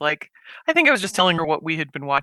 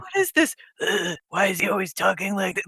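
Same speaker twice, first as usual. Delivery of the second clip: mock-incredulous question with a disgusted "ugh"; retold mocking disbelief; 3 dB quieter than usual. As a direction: quote a scornful viewer, pitched up at first. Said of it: "she was just, like, laughing at it".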